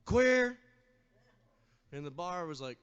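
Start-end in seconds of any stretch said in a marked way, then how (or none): 0.1-0.6 shrieked insult, high and loud; scream. Retold or imitated. Drunk sorority girl screams an insult at the guitarist. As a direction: scream it at the top of your lungs. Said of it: "at the top of her lungs, she screams".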